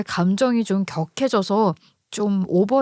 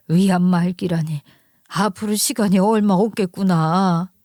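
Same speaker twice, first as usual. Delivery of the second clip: lightly acted elder's lament; lamenting mother-in-law. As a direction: fret over the news like a mother-in-law. (살짝 연기한 안타까워하는 시어머니)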